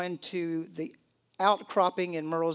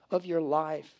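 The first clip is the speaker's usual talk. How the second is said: breathy hushed whisper. Acted. Preacher hushing the congregation on a dark hour, whispering. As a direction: drop to a whisper for effect. Sermon line dropped to hush.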